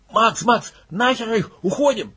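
urgent call to flee; calling from the entrance. Acted. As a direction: call him out from the doorway. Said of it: "донеслось от входа в палатку".

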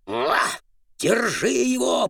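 barking shout. Acted. Bulldogs bark while chasing.

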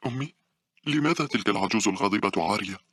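put-on high-pitched little girl voice; innocent little girl. A narrator's reading. Small girl asking her mother, very innocent. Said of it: "فتاة صغيرة أمها ببراءة شديدة".

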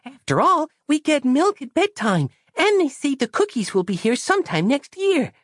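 put-on high, childlike, earnest voice; a naive small girl explaining; high child's voice, trusting and matter-of-fact; innocent little girl. Christabel's voice held.

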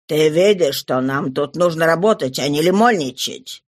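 a low, rough thug. Acted. Babet scolds the girl in a low bandit voice. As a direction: grumble it low like a crook.

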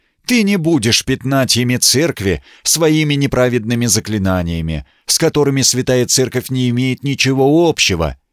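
stern monk. Acted. Monk's stern church pronouncement.

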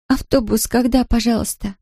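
put-on high, tearful girl with a strong Polish accent; a lost Polish girl in broken Russian, strong Polish accent. A narrator's reading. Tearful Polish girl asks the shopkeeper about buses, strong Polish accent. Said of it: "с сильным польским акцентом".

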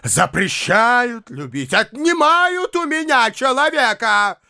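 a hint of theatrical grievance; mild dramatic complaint; Foma's self-pitying tirade. A narrator's reading.

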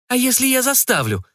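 a mild mock cry at the vampire; mock shout. A narrator's reading. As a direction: fling it at him as a dare. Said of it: "выкрикнула девушка".

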